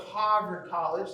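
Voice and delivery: attempted Boston accent, badly done. Shown as a demonstration. Lecturer naming the local college to students, bad Boston accent. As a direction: put on a clumsy Boston accent. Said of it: "That was a horrible accent".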